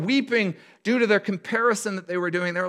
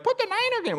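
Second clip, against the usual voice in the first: whiny fans. Retold or imitated. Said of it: "They're like".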